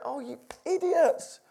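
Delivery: half-laughing, half-weeping Joseph scolding his brothers; a touch of tearful affection, high and loud; half crying Joseph. Retold or imitated. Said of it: "Joseph was half crying, half just going".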